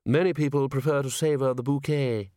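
refined speaker, quietly appalled; quietly horrified. A narrator's reading. A chair corrects Nobby on drinking brandy, quietly horrified. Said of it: "said a quietly horrified chair".

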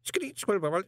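high, garbled squeak like a trapped spider; tiny faint tube voice. A narrator's reading. A voice in Moist's ear from a speaking tube, tiny squeaking. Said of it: "faint as a spider trapped in a matchbox".

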